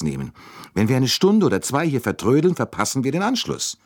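high, agitated female voice; worked-up fretting about a delay; anxious urgency. Acted. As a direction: protest urgently, pitched well up. Anxious woman fears missing train.

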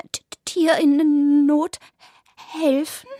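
high, slow stammering disbelief; suspicious rabbit. A narrator's reading. Rabbit questions the cats' offer suspiciously. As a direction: repeat it back in doubt.

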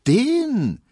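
high, loud, disdainful outburst; indignant, mocking servant girl; scornful maid.

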